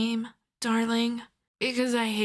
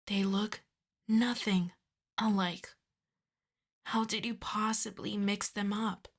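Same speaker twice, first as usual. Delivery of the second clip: softer, restrained dressing-down; exasperated scolding; 6 dB quieter than usual. Acted. Boss scolding Giacomo for kidnapping the wrong person, quietly exasperated. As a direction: scold the henchman under your voice. Scolding henchman aside over mix-up.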